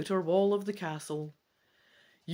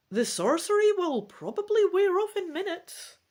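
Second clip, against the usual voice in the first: a hint of a regal mother; queen mother; 3 semitones higher, 3 dB louder than usual. Mother tells her son she found his sister.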